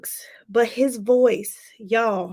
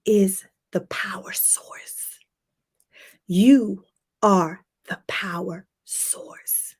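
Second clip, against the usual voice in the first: whisper; 3 semitones lower, slower than usual. Real, not acted. Whispered motivational emphasis.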